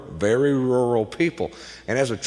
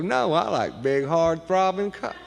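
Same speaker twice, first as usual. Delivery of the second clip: lightly voiced cousin, pitched up and softer; eager cousin; 4 semitones higher, 5 dB quieter than usual. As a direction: blurt it out keen and a bit higher. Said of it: "He goes".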